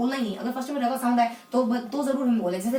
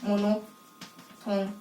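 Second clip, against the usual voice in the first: stretched out very slowly, every sound held; slow demonstration; 4 semitones lower, much slower than usual. Shown as a demonstration. Teacher spelling out the term for students, very slow. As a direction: drawl out मोनोथोन slowly and deliberately. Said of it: "यहाँ आ जाता है मोनोथोन".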